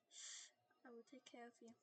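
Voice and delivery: hushing. Acted. Spirit hushing the sick one.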